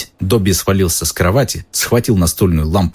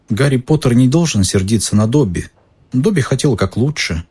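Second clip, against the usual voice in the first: lightly high, pleading elf; a mild plea from an elf; house elf voice; 4 semitones higher than usual. Acted. Dobby pleads, higher voice.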